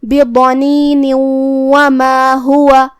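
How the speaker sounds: بضنین وما with the final noon merged into و and a nasal hum, slowly drawn; idgham with ghunna. Shown as a demonstration. A teacher demonstrating idgham bi-ghunna to students. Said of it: "یہاں حکم ہوا ادغام بغنہ".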